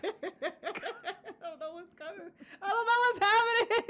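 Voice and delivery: high, squeaky words through laughter; real laughing fit. Real, not acted. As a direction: barely get it out for laughing. Helpless laughing fit over drinks.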